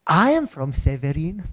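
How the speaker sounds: slow, drawn-out mild amazement, rising at the end; acted astonishment. Director discovering a shared hometown, mildly astonished. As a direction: stretch it out in dawning recognition.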